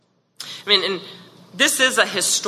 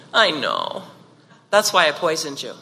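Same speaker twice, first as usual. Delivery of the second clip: tender wife; 3 semitones lower than usual. Retold or imitated. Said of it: "the wife looks at him tenderly and says".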